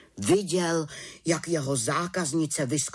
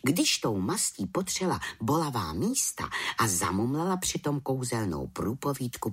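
usual speaking voice

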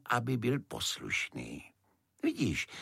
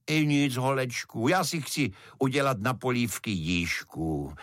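plain reading voice

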